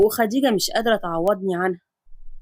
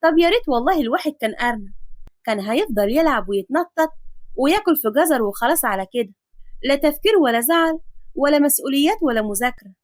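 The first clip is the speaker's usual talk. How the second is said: put-on dreamy girl; 2 semitones higher than usual. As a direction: wish aloud you were a carefree rabbit. Nafisa wishes to be rabbit.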